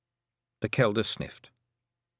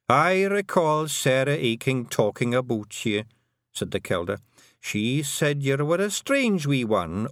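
put-on gentle old Scots voice, slowing fondly; old Scottish Kelda; 6 semitones higher than usual. A narrator's reading. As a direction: recall the strange wee girl warmly. Kelda recalls Tiffany.

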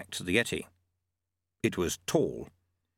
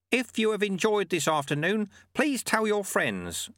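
put-on raised, calm old sweeper; old monk voice; 10 semitones higher than usual. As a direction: voice the sly old monk lightly. Narrator voices Lutze.

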